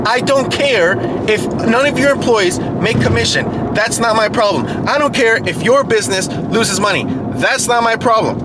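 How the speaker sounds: acted-out dismissive haggling; unyielding negotiator. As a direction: re-enact refusing to budge with the dealer. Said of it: "this is exactly how I talk to them".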